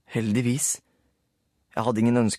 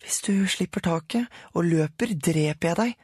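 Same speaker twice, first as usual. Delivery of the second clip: Sara threatening; 7 semitones higher than usual. A narrator's reading. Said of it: "sa Sara".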